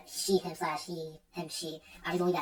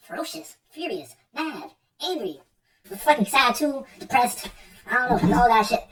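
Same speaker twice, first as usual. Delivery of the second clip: rising pitch and louder, words tumbling out; building rant, higher and louder; excited rant; 6 semitones higher, 5 dB louder than usual. Real, not acted. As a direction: pile it on, getting louder. Piling up words for rage.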